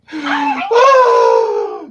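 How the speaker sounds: high loud gasp. Retold or imitated. Dramatic shocked gasp.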